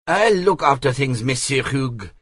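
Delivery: put-on high, firm young man taking charge; authoritative. A narrator's reading. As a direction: Guccio taking control for his tired chief. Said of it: "replied Guccio authoritatively".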